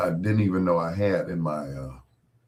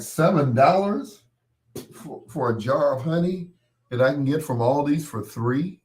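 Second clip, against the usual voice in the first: outraged disbelief; 7 semitones higher, 4 dB louder than usual. Retold or imitated. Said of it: "I'm like".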